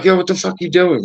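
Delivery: re-enacted indignant call-out; territorial challenge. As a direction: challenge intruders on your turf. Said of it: "you get real territorial".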